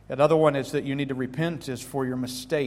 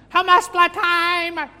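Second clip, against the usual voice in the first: high, loud, slow drawn-out mom yell; hammed-up scolding mother; mock mother yelling at her son; 9 dB louder, much slower than usual.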